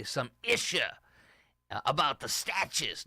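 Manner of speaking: "some issue" pitched high with a rising tune; teasing imitation of "some issue" with an upward lilt; Dwayne's way of saying it. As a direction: mimic a buddy's sing-song "some issue". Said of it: "or as Dwayne would say".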